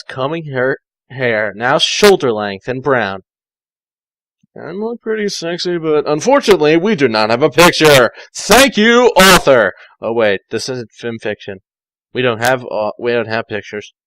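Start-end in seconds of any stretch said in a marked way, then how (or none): 4.6-9.7 lightly voiced vain Tails; voicing Tails. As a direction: preen a little in the mirror. Tails voiced admiring herself.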